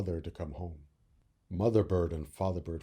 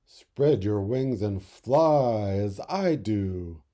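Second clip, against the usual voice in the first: father bird; 6 dB louder, much slower than usual. Acted. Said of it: "said the father bird".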